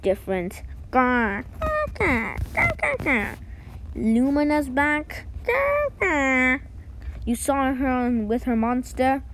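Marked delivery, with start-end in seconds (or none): 0.9-3.4 sea creature growl. Acted. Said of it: "Your languages even sound dis-, di-, different". 5.4-6.6 sea creature growl. Acted. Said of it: "Your languages even sound dis-, di-, different".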